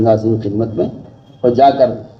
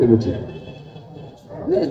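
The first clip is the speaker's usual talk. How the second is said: "یہ بھی ٹھیک پڑھ رہے ہیں" slowed and whispered; drawn out under the breath; slow soft whisper; 9 dB quieter, slower than usual. Shown as a demonstration. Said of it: "میں بہت اچھی مثال آپ کو دے رہا ہوں". (دھیمی سرگوشی میں آہستہ)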